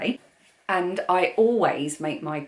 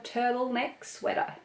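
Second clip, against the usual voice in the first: higher, mock American accent on "turtleneck sweater"; 6 semitones higher, 5 dB quieter than usual. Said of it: "don't do accents".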